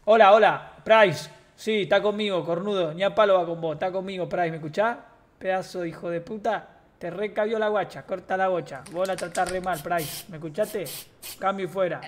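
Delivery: loud walkie-talkie call, hammed-up; radio a rival like a cop; police radio voice. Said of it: "no se te daría mal ser policía".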